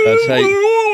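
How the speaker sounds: breaking up laughing. Real, not acted. Finishing the chloroform joke, laughing so hard the voice cracks. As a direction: voice cracks high and loud through laughter.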